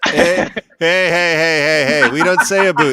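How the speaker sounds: laughing objection, punched up; amused, emphatic denial; mock protest. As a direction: protest the Canadian stereotype in fun. Mock protest at Canadian accent teasing.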